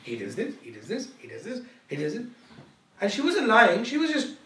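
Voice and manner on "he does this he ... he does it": imitated repetitive complaining, rising endings; mock nagging list. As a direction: reel off complaints as if never stopping. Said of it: "she just went on and on".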